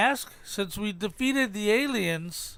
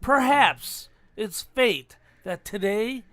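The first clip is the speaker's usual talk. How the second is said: movie speech impression. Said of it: "Guess what movie I've taken this from".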